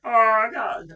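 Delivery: high, loud frog-puppet wail; Kermit impression. Slipping into it while chatting, high puppet impression. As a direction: push it up into a puppet voice. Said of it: "I'm doing Kermit again".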